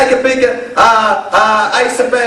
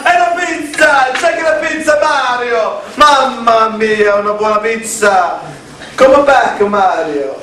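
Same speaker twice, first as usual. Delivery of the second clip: jolly italian pizza chef; 3 semitones higher than usual. Acted. Hammed Italian pizza bit.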